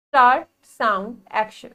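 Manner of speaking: film director calling start sound action; director's call. Acted. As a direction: shout start like a director on set. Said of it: "director ने अब अपना शुरू किया".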